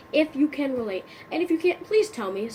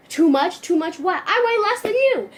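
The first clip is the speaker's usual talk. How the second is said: literal friend; 7 semitones higher, 6 dB louder than usual. Acted. Too-literal friend retorts.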